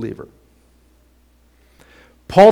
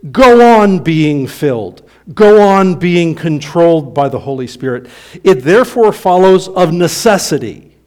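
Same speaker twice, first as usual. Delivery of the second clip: forceful preaching; 2 semitones higher, 5 dB louder than usual. Acted. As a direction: press the command hard. Preacher reads quoted command forcefully.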